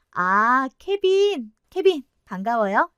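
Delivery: bright self-introduction. Acted. Kevin introduces himself.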